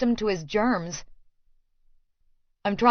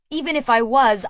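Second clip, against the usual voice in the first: indignant; 4 semitones higher, 5 dB louder than usual. Acted. Heated quarrel in car.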